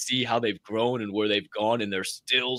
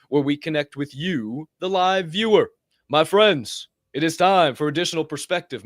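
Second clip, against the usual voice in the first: show announcer; 5 semitones higher than usual. Real, not acted. Announces viewer segment.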